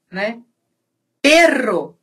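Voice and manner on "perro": "Perro" with a vibrating tongue-tip RR; rolled double R. Shown as a demonstration. Teacher shows a difficult vibration, trilled RR in "Perro". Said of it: "essa vibração é".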